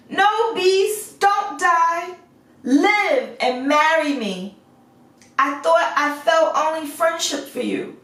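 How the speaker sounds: Beauty begging the beast to live, high and urgent; pleading Beauty. A narrator's reading. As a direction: beg him not to die, near tears.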